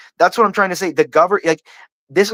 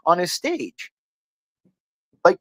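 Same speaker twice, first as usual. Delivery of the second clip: ordinary talk, nothing marked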